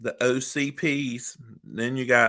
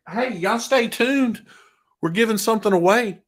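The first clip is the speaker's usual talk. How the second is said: excited; 10 semitones higher, 7 dB louder than usual. Real, not acted. Announcing giveaway to viewers.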